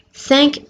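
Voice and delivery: "cinq" ending in an audible k; final k sound. Shown as a demonstration. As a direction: close "cinq" on a clear k. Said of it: "ends with a k sound".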